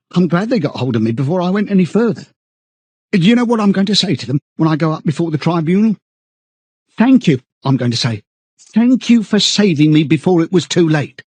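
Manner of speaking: high, eager, servile voice; fervent gratitude. A narrator's reading. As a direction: thank your captors with earnest zeal. Parsons gratefully rehearses tribunal speech.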